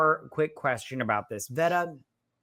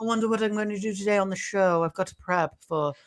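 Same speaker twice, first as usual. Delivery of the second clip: Buzzsaw voice. Retold or imitated. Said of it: "All like".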